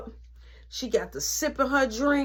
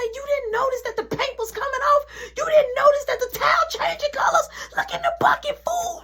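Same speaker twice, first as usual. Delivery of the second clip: mom yelling. Retold or imitated. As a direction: scold him like he's hopeless. Mom scolding Mark.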